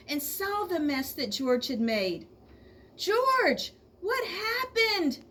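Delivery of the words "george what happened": put-on high, surprised child voice; boy asking. A narrator's reading. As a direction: ask wide-eyed like a little boy. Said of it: "asked one boy".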